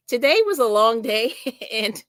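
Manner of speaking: giggling through the words; fighting back giggles. Real, not acted. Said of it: "So sorry about the giggles".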